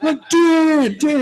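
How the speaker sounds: very high, drawn-out mock fan call; imitated excited fans. Teammate mimicking fans calling to the player, high excited mock shout.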